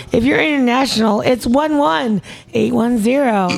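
phone number read. Shown as a demonstration. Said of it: "And I practice that".

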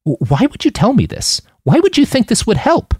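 put-on high, startled stammer of a scared kid; panicked young Manny. A narrator's reading. Scared kid blurting at Roland, high and stammering. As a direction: sputter out in shock, voice jumping up.

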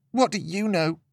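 high, bitter hiss. A narrator's reading. Upset girl to her pet from the bed, hissed. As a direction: spit it out under the breath. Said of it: "she hissed".

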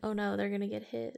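whispered, amused worry; a hushed inner voice; whispered thought. Retold or imitated. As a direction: whisper it to yourself. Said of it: "And I was like".

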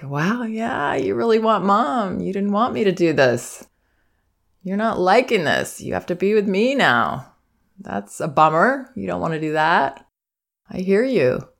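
put-on calm, understanding voice to an upset toddler; calm acknowledging parent. Shown as a demonstration. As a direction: acknowledge the child's feelings without drama. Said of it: "Not going over the top".

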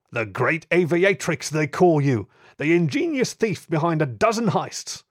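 loud, slow, triumphant police chief; gruff inspector voice. Acted. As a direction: gloat over the caught thief. Bulldog inspector confronts the thief.

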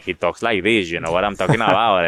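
a light, imitated Cuban accent in English. Actor mimicking his Cuban producer in a light Cuban English accent. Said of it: "Te aventaste mucho Tony Montana".

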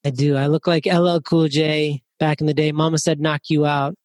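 muffled under a towel; talking through a towel over the head. Real, not acted. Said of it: "forced me to put a towel over my head".

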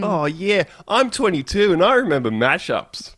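loose party punter phoning in; elated radio caller. Acted. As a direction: play a wasted, happy caller bragging about the party. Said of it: "he's having the time of his life".

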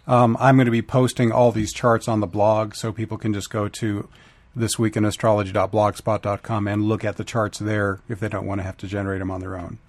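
hoarse, strained voice; raspy whisper. Real, not acted. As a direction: talk through a sore, raspy throat. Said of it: "excuse my voice".

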